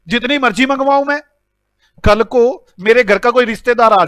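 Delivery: indignant mock telling-off; acted rebuke. Boss tells purchase manager it's none of his business, indignant. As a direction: tell him off, play-acting an affronted boss.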